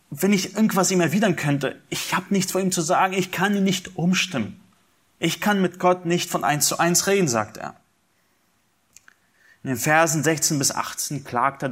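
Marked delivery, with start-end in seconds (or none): 0.1-7.3 higher, pleading voice of suffering Job; Job's lament. Acted. Preacher voicing Job's complaint to the congregation, pleading. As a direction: plead upward as a man who cannot reach God.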